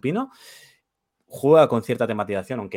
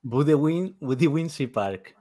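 Budewinsie said slower and higher, for clarity; slow repeat; 4 semitones higher, slower than usual. Real, not acted. Co-host repeats the park's name for a confused guest, slowly.

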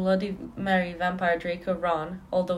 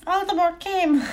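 higher, slow put-on voice; dramatic reading; 9 semitones higher, slower than usual. Reading a fanfic line to friends in a dramatic put-on voice. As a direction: deliver it like a tragic heroine.

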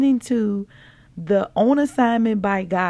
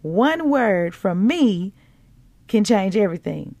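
slow. Retold or imitated. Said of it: "Holy Spirit said".

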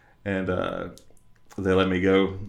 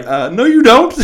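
high laughing protest; 14 semitones higher, 11 dB louder than usual. Retold or imitated. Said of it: "I was like".

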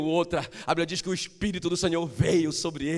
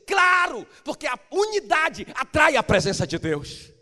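much higher and louder triumphant cry; preaching shout; 7 semitones higher, 7 dB louder than usual. Real, not acted. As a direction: hammer the point home at full force. Preacher's climactic exclamation. (pregador gritando no clímax)

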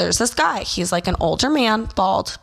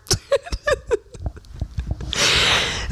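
breathy laugh. Real, not acted. Laughing at her own joke.

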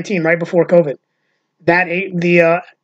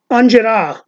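put-on higher Italian American accent, word run together; Uncle Louie; 4 semitones higher, slower than usual. Quoting the comedian's word of the day, Italian American accent. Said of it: "he says things like".

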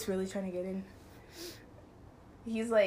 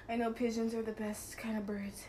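soft unvoiced aside, a little quieter; whispered aside; 6 dB quieter than usual. Real, not acted. Whispering a joke aside to her friend on the call.

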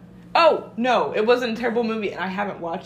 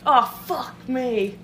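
mouth burning from spicy food; 3 semitones higher, 4 dB louder, much slower than usual. Real, not acted. After eating spicy wing sauce.

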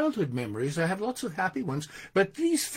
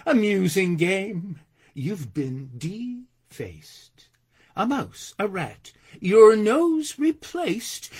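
measured verse reading with stretched line endings; poem recitation; 2 semitones higher, 3 dB louder, slower than usual. Acted. Poet recalls grade-school bully in verse for audience, measured recitation. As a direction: recite with deliberate, theatrical phrasing. Reads own poem aloud.

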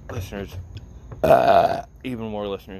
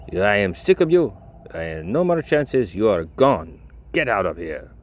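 louder, stern mock firing; boss firing her; 4 dB louder than usual. Boss firing Debbie in front of the kitchen, angry. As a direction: bark the firing in his accent. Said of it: "she proceeds to break down and cry".

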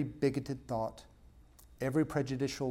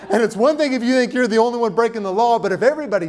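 louder, still laughing through the words; laughing while talking; 8 semitones higher, 12 dB louder, faster than usual. Real, not acted. Laughing after the joke.

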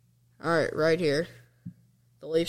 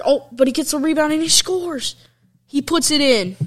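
higher and louder, calling the rebound goal; excited goal call; 9 semitones higher, 4 dB louder than usual. Real, not acted. Fan calling Forsberg's record goal, rising excitement. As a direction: ring it out as the puck goes in.

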